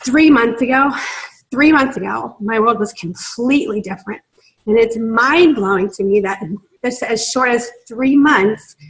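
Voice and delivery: fighting back tears as she speaks; tearful, choking up mid-sentence; near tears. Real, not acted. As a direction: voice catching with real emotion, pitch lifted. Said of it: "I'm gonna cry".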